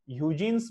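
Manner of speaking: ह्यूजेंस said as "HYOO-jens"; ह्यूजेंस, the "hyoo-jeens" version some teachers use; alternative pronunciation. Shown as a demonstration. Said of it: "ह्यूजेंस बोलते हैं कुछ teachers".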